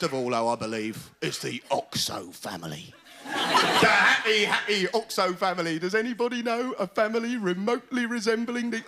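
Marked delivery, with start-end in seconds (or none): 3.2-5.8 sarcastic happy. Retold or imitated.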